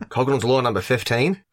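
put-on Aussie announcement; Australian accent. Co-host announces a drinking-game rule, mock Australian accent. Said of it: "keep saying that in the accent".

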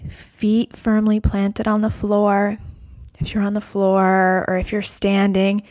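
guided meditation. Acted. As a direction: guide them gently into the breath. Leads guided breath practice.

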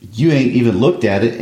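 reading Walter. Acted. Son confronting his mother over the plan, pressing plea. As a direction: lean on it like a wounded son. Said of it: "I'll read Walter".

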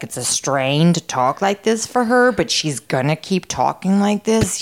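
lightly imitated strained fake American voice; a half-hearted go at a forced, put-on voice; Elizabeth Holmes. Shown as a demonstration. Podcaster demonstrating the founder's fake voice, unpractised strained impression. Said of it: "it's really low and American".

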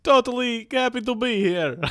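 cheery mock Irish; Irish accent. Irish roommate Connery greeting host, hammed-up Irish. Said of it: "Connery O'Shannacan".

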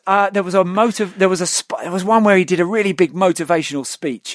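ordinary talk, nothing marked

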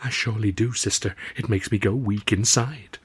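soft, swooning sigh of a belle; sighing Southern belle. Acted. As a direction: sigh it out, dreamy and weak. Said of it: "gave a little sigh and said".

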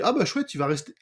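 high, bright cheer of hope; delighted. Retold or imitated. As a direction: sound thrilled the character stays. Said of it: "Tu dis".

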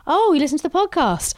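high-pitched retold surprise; surprised. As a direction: act out pleased surprise, voice lifted. Retelling own surprised reply at salon.

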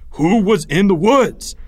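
slow, loud, high question; urgent demand. A narrator's reading. Greg grabbing Leo to get answers, urgent demand.

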